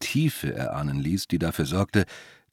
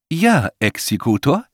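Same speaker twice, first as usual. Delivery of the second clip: higher, neutral machine-like reply; genderless voice; 6 semitones higher, 4 dB louder than usual. A narrator's reading. Unseen voice answering the executor, genderless. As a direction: answer as a sexless disembodied assistant. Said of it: "antwortete eine geschlechtslose Stimme".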